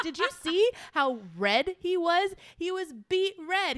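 cracking up while asking; laughing. Retold or imitated. Coworker in the office cracking up about the red-faced member, laughing.

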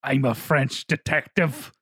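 slow, low mock Irish accent; slow Irish-accented movie tough guy impression; Liam Neeson's Irish accent. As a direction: claim to be French in a drawn-out Irish accent. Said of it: "undermined by his Irish accent".

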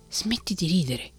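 a touch of irritation, still hushed; mildly cross scolding; a hint of a vexed old man; peeved. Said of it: "disse Geppetto impermalito".

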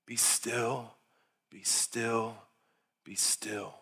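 soft, settling repetition with pauses between; hushed stillness. Real, not acted. Preacher telling the congregation to be still, hushed and soft. Models being still before God.

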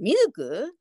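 mildly astonished echoed question; mock surprise with a questioning lift; surprised. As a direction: imitate someone taken aback, lightly. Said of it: "とかって言って驚いて".

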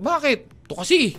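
high-pitched mock quarrel with a wall; palaaway. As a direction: pick a silly fight, laughing. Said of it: "nakikipagsuntukan sa pader o sa puno". (pabirong nakikipag-away, mataas ang boses)

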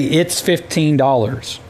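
slow, confident price quote. Shown as a demonstration. Customer shows the pizza guy how to quote, confident. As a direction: state the total with certainty. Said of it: "at least be confident about it".

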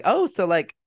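lightly acted passive-aggressive dig. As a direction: imitate a nosy, needling brother. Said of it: "being real invasive and passive aggressive".

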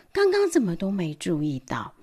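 hushed, wondering whisper. Acted. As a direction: breathe it in amazement. Marvelling at the sky. (惊奇地低声耳语)

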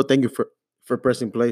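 words broken by hiccups. Real, not acted. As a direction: talk through a bout of hiccups. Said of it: "Sorry, I, I got hiccups".

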